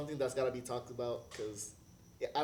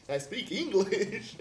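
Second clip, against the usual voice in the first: slow emphatic; 8 semitones higher, 6 dB louder, much slower than usual. Retold or imitated. Retelling reply to racist host.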